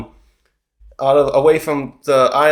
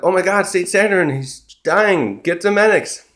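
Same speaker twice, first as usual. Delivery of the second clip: mildly panicked mock cry, higher pitched; retold panic; 4 semitones higher than usual. Vice admirals react to Saint Saturn dying, mock alarm. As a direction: act out an alarmed bystander, lightly.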